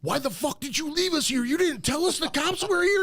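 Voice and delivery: high, outraged accusing voice; imitating an angry friend left behind; angry buddy. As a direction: whine it like a betrayed friend. Buddy angrily accusing him.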